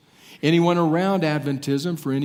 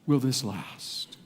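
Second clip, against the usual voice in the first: plaintive lament; much slower than usual. Acted. Daniel asking in the vision, a weary plea. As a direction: ask it like a weary cry to heaven. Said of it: "And he says".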